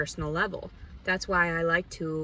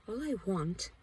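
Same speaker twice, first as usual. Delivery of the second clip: pleading; 5 semitones higher than usual. Real, not acted. Telling viewers about homelessness, a high aching plea fading away. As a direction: repeat it like a plea that gives out.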